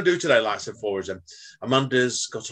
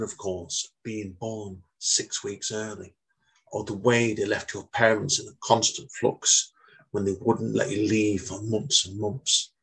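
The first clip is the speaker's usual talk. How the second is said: poem reading. Acted. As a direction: read it out as a poet would, with pauses. Reads his poem.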